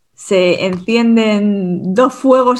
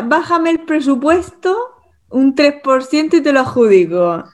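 quoting a client; 4 semitones higher than usual. Retold or imitated. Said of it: "la palabra".

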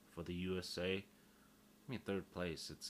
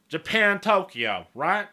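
very loud, high mock redneck twang; 12 semitones higher, 22 dB louder, slower than usual. Podcaster showing how rednecks name Tokyo, loud country twang. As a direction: blare it out as a caricature redneck. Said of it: "they would be like".

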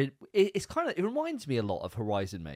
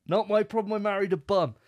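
much higher, louder hammed-up protest; high, loud mock outrage repeating the line; hammed-up indignant; 10 semitones higher, 7 dB louder than usual. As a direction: squeal it like an outraged husband.

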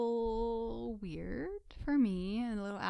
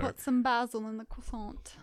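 mock English; 3 semitones higher, 4 dB louder than usual. Friend joking in a mock English accent. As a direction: toss it off like a posh Brit.

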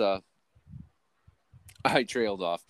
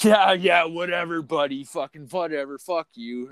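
mock dismissive boss; 6 semitones higher than usual. Boss brushing off the worker who wants pay, sneering. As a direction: imitate the boss waving you off.

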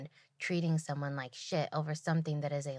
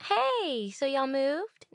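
chirpy server voice; 8 semitones higher, much slower than usual. Retold or imitated. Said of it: "I go over there and I'm like".

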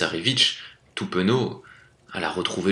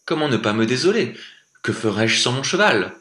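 despairing prince; 5 semitones higher, 4 dB louder than usual. Acted. Prince laments to the wolf.

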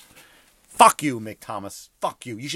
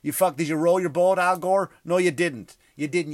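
mock rant; 4 semitones higher, 5 dB louder than usual. Ranting at Al Gore.

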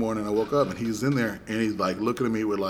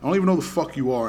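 irritated, higher-pitched retort; already salty; 4 semitones higher than usual. Retold or imitated. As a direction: shut him down, mildly heated. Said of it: "I'm already salty".

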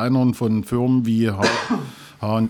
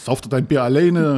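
Kinski rant; 3 semitones higher, 7 dB louder than usual. Pretend. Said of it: "So wird er wahrscheinlich jetzt abgehen".

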